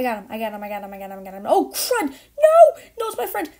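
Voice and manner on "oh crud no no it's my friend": a sudden high anguished cry; anguished denial. Real, not acted. Friend about to be killed.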